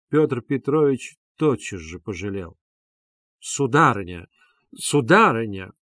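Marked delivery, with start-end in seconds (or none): 3.4-5.7 imposing voice. Acted. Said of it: "восклицал он внушительным голосом".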